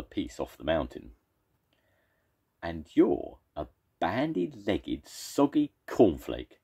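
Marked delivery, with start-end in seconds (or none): 2.6-6.6 higher, slow taunting reply; mocking retort. Second monster retorts to the first. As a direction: fire back a silly insult. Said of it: "replied the second monster".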